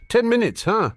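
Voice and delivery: high, mocking echo of his bet. Harry echoing Draco's bet, amused and mocking. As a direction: toss the boast back at him, amused. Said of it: "Harry repeated".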